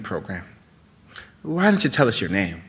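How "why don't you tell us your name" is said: arena announcer. Acted. Announcer addresses crowd and prisoner.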